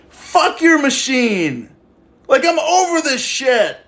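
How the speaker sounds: mock furious Jesus. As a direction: bellow it slowly like Jesus fed up in the temple. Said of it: "He was like".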